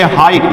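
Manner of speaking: हाइट with a clear "eye" vowel; teacher's clear "eye" in हाइट; "eye" sound. Shown as a demonstration. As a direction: model हाइट to rhyme with "kite". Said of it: "इसमें आई निकल रहा है".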